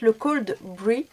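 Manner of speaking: English coffee name in a French accent; slow, careful French-accented English. Real, not acted. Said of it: "excusez mon superbe accent".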